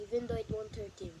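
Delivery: fast quacky cartoon duck; Donald Duck voice. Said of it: "Donald Duck voice".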